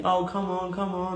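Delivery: softly imitated motherly comforting; gentle, hushed coaxing; consoling mum. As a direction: soothe a crying son, softly. Mum consoles her crying son.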